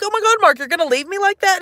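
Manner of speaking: high, shocked wail at Mark; dramatic disbelief. Retold or imitated. Retelling the breakup, mock shocked and hurt. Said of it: "And I was like".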